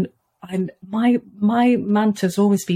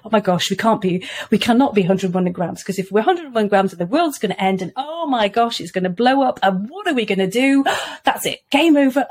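mock panic. Mum mock-panicking over one gram to break her daughter's tension, hammed-up. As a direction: overplay the panic as if the world will end. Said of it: "I just went on for a few minutes".

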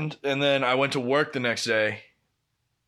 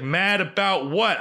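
higher, slowed-down mock exasperation; exasperated demand; 5 semitones higher, slower than usual. Girlfriend questioning her caller on the phone, exasperated. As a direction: imitate someone losing patience with a vague caller.

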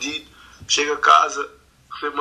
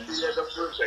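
whispered curse; 3 semitones higher, 9 dB quieter than usual. Retold or imitated. Repeats the quote hushed.

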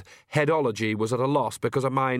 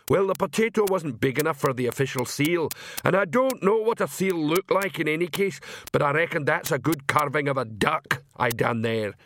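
proud simple troll; 3 semitones higher than usual. Acted. Troll explains his stamp.

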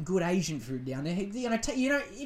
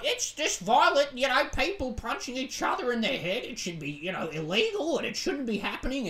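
mock pearl-clutching boomer; 5 semitones higher than usual. Mocking Facebook boomers, prissy disapproving voice. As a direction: lightly mimic a scandalised old commenter. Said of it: "being like".

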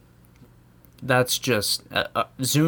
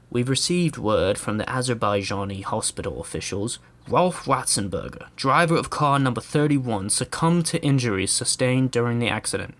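nonchalant announcer. Retold or imitated. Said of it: "his attitude is totally nonchalant".

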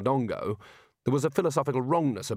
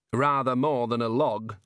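the Dean's voice. Acted. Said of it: "the dean began".

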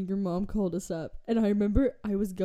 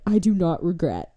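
defiant; 3 semitones lower, 10 dB louder than usual. Retold or imitated. Defiant friend quote, loud.

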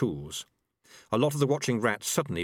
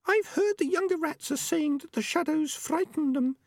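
very high, small female rat voice; Peaches, young female rat. A narrator's reading. Peaches tells the elders about the young rats' fear, very high-pitched. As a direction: speak up in a tiny high-pitched voice.

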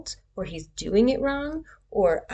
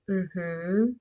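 affirming hum; 2 semitones lower than usual. Shown as a demonstration. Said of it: "make sounds that help you".

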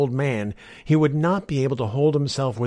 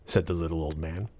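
plain reading voice

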